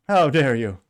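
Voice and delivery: slow, loud mock indignation; mocking quote. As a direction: drag it out loud and sneering. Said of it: "Greta Thunberg. Yeah, that weirdo".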